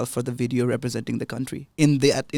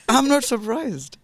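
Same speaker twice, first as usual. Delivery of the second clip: laughing, higher and slower; laughing tease; 11 semitones higher, 5 dB louder, slower than usual. Real, not acted. Interviewer teasing the guest, laughing. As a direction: tease her through a laugh. Teasing after her childhood confession.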